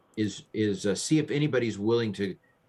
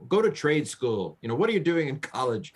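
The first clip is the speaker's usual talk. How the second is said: higher-pitched mock elitist dismissal; 5 semitones higher than usual. Mocking the chapter's tone to a colleague, elitist and dismissive. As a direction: talk down like a condescending elitist. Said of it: "kind of an elitist".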